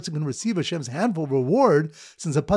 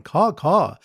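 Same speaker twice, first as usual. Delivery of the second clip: mock bird call; 2 semitones higher, 4 dB louder than usual. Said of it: "The bird callers weeping and going".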